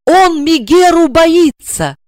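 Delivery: high, slow panicked cry. A narrator's reading. Wife panicking as the husband fears her. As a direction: panic in despair. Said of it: "отчаянно запаниковала".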